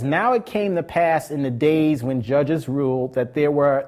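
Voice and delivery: slow, measured Bible reading; scripture reading. Acted. Preacher reading the verse aloud, slowly and measured. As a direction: read the verse deliberately to the congregation.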